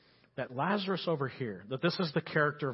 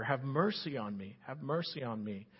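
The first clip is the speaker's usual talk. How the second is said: understated beggar's plea, softening on the repeat; begging cry; 2 semitones lower, 7 dB quieter than usual. Acted. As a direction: plead quietly, like a beggar acted lightly. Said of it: "He cries like a beggar".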